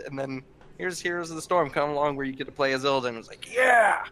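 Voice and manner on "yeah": high, loud celebratory yeah; retold cheer. Player recalling getting to play as Illidan, thrilled. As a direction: cheer it out, pitched way up. Retelling own thrilled reaction.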